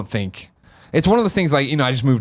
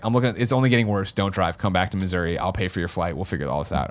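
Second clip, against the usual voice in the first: mom in tears; 5 semitones lower, 4 dB quieter than usual. Retold or imitated. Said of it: "she's in tears".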